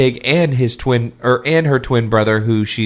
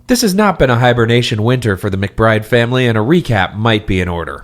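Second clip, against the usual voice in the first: dramatic reading. Acted. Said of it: "this leads into my dramatic reading".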